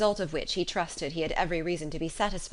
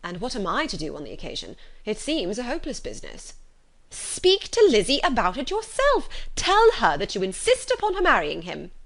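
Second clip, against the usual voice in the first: higher and louder, urging her husband in a fluster; agitated wife; 5 semitones higher, 5 dB louder than usual. Acted. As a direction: press him to act, all in a fuss. Mrs Bennet pressing her husband.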